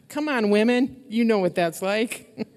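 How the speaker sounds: bright, laughing call to the women; rallying call. Real, not acted. Pastor rallying the mothers in the room, excited laughing call.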